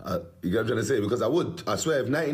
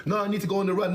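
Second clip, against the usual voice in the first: mocking whiny girl; 9 semitones higher, faster than usual. Mocking girl insisting on running.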